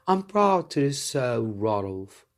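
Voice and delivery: a hint of a princess addressing the king. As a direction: speak as the young princess, politely.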